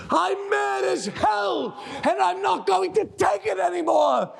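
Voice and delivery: furious rallying yell. Acted. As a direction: yell it out the window. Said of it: "shout it with me".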